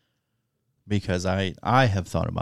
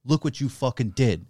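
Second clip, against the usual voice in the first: past, grieving; 4 semitones higher, 5 dB louder than usual. Retold or imitated. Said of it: "it goes like".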